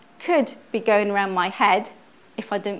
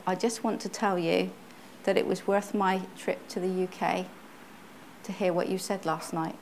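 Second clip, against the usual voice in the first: softly quoting her, barely above a murmur; hushed, confiding tone; a lady confiding quietly after the meeting; quiet retelling; 7 dB quieter than usual. Retold or imitated. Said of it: "very quietly".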